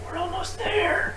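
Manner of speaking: squeaky high butthole voice; pleading little butt voice; talking butthole. Pretend. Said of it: "your butthole's just like".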